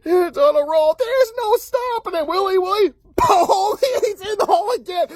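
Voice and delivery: hammed-up, high-pitched sports commentary; excited mock play-by-play; delighted announcers. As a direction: ride way up high like a thrilled commentator. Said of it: "announcer guys loving every minute".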